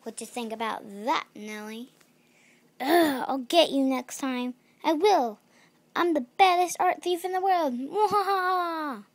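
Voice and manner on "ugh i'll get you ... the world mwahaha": loud, high cackling villain; mad scientist. Acted. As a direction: vow revenge and cackle madly. Villain vows revenge.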